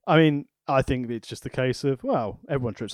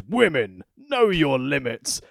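sketch voiceover quote; slower than usual. Retold or imitated. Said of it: "the voiceover goes".

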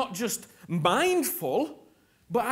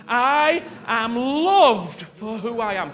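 slow, louder call-and-response declaration; declared slowly; 6 dB louder, slower than usual. Shown as a demonstration. Preacher leading congregation in slow loud declaration. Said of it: "Come on, say it after me".

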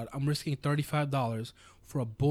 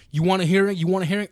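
higher and louder, a needling repeated taunt; mock challenge; 5 semitones higher, 7 dB louder than usual. Hearing officer challenging the small business owner, mock loud taunt. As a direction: push it at him like a dare.

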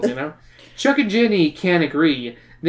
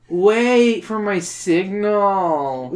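Pauly Shore voice; 3 semitones higher, much slower than usual. Acted. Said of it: "God, I hate his voice now".

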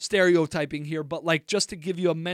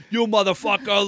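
mock angry swearing, raised pitch; angry cursing; 4 semitones higher, 4 dB louder than usual. Retelling their own outburst at the roommate, angry cursing. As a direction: curse like an angered sailor, half in earnest. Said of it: "if I get angry".

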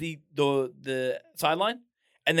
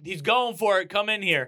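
raised, higher voice calling dad over; retold calling out; 4 semitones higher, 3 dB louder than usual. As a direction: re-enact an urgent summons to dad. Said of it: "and I yell".

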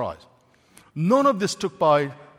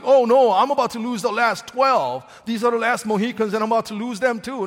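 louder, hurried hammed-up panic; mock desperate lament; 3 semitones higher, 4 dB louder than usual. Preacher mocking a desperate Jesus losing the twelve, hurried. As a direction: overplay a panicked loss. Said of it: "somebody who's really sad and desperate".

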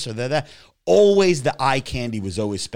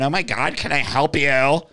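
mocking sales guy; 2 semitones higher, 3 dB louder than usual. Mocking a green-haired Sephora clerk, lightly camp greeting. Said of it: "talking like this with green hair".

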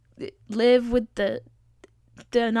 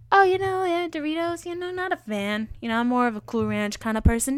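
mock casual remark; 5 semitones higher than usual. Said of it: "I could have said".

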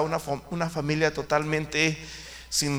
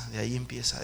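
usual speaking voice

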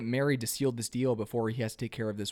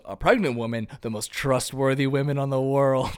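mock crowd reaction; 3 dB louder than usual. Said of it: "And everyone goes".

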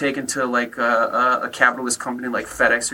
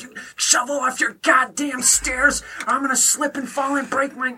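mocking angry mailman; 9 semitones higher than usual. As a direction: ham up the grumpy mailman's complaint, pitched way up and dragged out. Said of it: "He was like".

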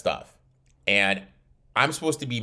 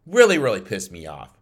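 "Really, really" hit louder, with real irritation; louder repeat; 5 dB louder than usual. Real, not acted. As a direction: push the repeat harder, really annoyed. Repeats the line with more force.

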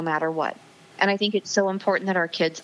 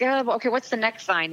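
lightly mimicking an offhand shrug, higher pitch; mock casual brush-off; 5 semitones higher than usual. People answering God's sign, mock casual brush-off. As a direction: play it breezily unconvinced, pitched up.

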